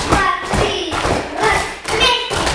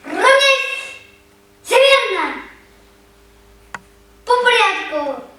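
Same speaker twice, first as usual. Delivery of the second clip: shouting drill sergeant; 3 semitones higher, slower than usual. Real, not acted. Teacher drilling children in formation.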